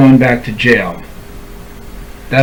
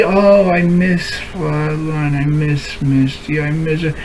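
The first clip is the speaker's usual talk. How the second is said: mock whiny pining; 4 dB quieter than usual. Vlogger mocking himself pining for a lost friend, whiny. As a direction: lightly mimic a pathetic pining voice. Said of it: "that's pitiful and pathetic".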